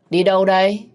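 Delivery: loud, sharp challenge; hostile challenge. Acted. Daughter-in-law confronts returning mother-in-law, loud and hostile. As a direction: block them with it. Thảo blocks the door challenging.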